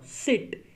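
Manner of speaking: सिट clipped and breathy; short i in sit. Shown as a demonstration. Teacher showing the short i. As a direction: say सिट quick and cut off. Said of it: "ये बिल्कुल short है".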